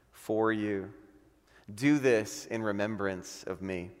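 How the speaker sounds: measured, solemn Bible reading with long pauses; scripture reading. Acted. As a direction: pastor reading the Lord's Supper text to the church, solemn. Reads Luke 22 aloud.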